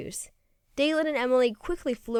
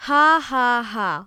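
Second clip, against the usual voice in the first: mock laugh; 5 dB louder, much slower than usual. A narrator's reading. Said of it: "laughed Willie".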